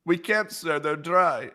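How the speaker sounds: a hint of a glum aide; lightly voiced subordinate refusing.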